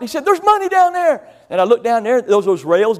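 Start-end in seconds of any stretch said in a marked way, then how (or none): 0.2-1.3 put-on excited kid. Kid calls out to dad.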